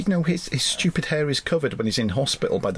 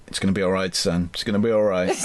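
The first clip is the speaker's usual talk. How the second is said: lower, mock tender reassurance; lower, hammed-up fatherly comfort; soothing dad; 6 semitones lower, faster than usual. Acted soothing dad quote.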